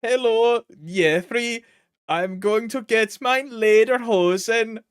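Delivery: loud, high, hammed-up German accent; mock German accent. Shown as a demonstration. Streamer attempting German accent about lederhosen, hammed-up mock German accent. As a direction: play a silly German, loud and proud. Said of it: "what is a German accent though".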